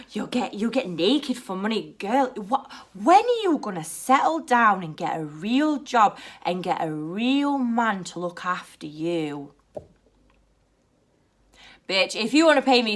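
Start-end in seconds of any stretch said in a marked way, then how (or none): 0.1-9.5 mock-concerned customer; patronising. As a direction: talk down to her, drawing out the end. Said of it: "the rude, patronising ones".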